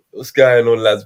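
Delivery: lightly imitated white-British Somali accent; white Somali guy accent. Joking about white Somali guys, imitated British lad accent. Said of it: "them proper white Somali guys".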